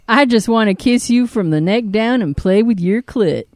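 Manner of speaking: light put-on southern accent. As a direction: quote it in a southern twang.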